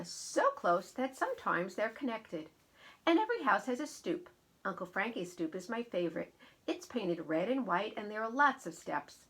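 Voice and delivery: lively picture-book read-aloud; storybook narrator voice; story narration. A narrator's reading. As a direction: read it clearly and expressively to listeners. Reads her picture book aloud.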